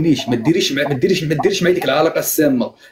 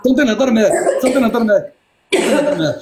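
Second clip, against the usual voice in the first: insistent raised voice; 5 semitones higher than usual. Real, not acted. Husband cuts off wife in a fight, insistent raised voice. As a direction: cut in, demanding your turn, pitch up.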